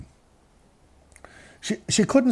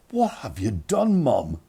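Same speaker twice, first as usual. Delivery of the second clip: mock dismay; slower than usual. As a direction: confront mum in drawn-out disbelief. Appalled son confronting mother after call.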